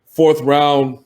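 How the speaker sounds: low, soft, calm negotiator voice; soft-spoken executive. Retold or imitated. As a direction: speak softly and evenly. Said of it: "it's just his soft voice".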